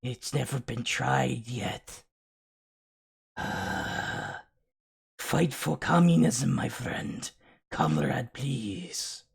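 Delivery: slow, hammed-up comrade voice; lightly voiced old communist, mocking; mock Marx cooing at a fan of communism; mock Karl Marx. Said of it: "Karl Marx is basically caressing you, is saying".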